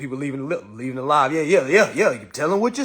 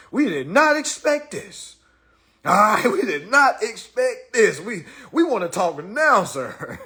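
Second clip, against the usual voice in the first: mock pleading opponents. Imitating opponents begging mid-game.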